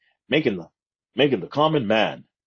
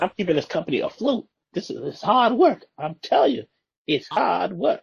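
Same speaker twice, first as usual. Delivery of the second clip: overworked office worker; 9 semitones higher than usual. Acted. Voicing the overworked accountant hero.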